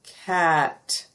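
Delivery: "Cat" spoken clearly as a model word; clear word said to students. Shown as a demonstration. Teacher saying the word cat to students with eyes closed. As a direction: say "Cat" plainly and clearly for kids to hear. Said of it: "and I say".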